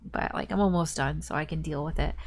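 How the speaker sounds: blocked nose, talking through it; congested, nasal stuffy voice; stuffed nose. Real, not acted. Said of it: "My nose is so stuffed".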